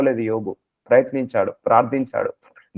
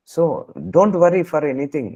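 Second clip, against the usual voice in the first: very slow urging; much slower than usual. Real, not acted. Preacher urging listeners not to worry.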